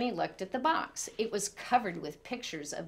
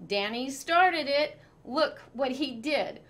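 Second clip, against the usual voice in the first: yelling; 6 semitones higher, 3 dB louder than usual. A narrator's reading. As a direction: protest loudly to mom. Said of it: "Walter yelled".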